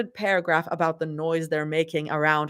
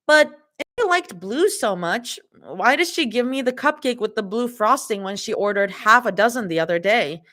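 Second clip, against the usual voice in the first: higher voice, puzzled questioning; Zoe voice; 4 semitones higher than usual. Acted. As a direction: raise the pitch and question her.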